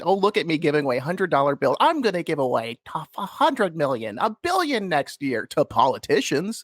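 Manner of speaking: high-pitched mocking impression; Sam. Host mocking a founder's showy giveaways, high mock impression. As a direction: put on a high, boastful show-off voice. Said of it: "does he really sound like that?".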